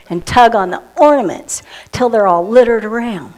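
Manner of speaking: put-on lively rhyming read-aloud for children; poem reading. Reading a Christmas kitten poem to the children, storybook style. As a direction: read it like a bedtime verse, with bounce.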